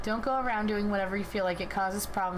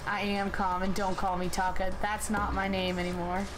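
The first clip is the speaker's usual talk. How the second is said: transformed tough guy. Acted. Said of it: "And your voice".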